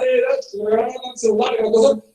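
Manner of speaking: ordinary talk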